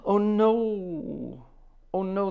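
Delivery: high, loud cry of dismay; real dismay. Real, not acted. Host hears a listener's daughter broke her leg, cries out in dismay. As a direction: gasp it out in shock. Reacting to a listener's accident news.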